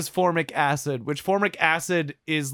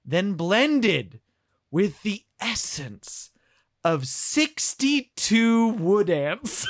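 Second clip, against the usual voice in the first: mock ad copy; 2 semitones higher than usual. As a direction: read the label like a grand commercial. Reading gin ad copy.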